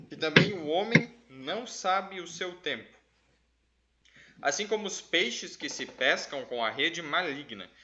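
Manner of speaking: declaimed verse reading; scripture reading. Acted. Reads a Bible verse aloud.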